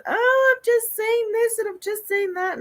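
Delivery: put-on high, breathless child gushing; excited kid voice. Kids running upstairs to tell mom, high excited voice. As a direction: play the kids bursting in with news.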